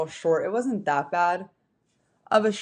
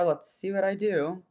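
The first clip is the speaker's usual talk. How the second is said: defeated tone; 3 dB quieter than usual. Real, not acted. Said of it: "talking with kind of this defeated tone".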